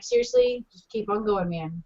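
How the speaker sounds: softly tossed-off imagined remark; low-key aside. Retold or imitated. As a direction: say it quietly, as a casual aside.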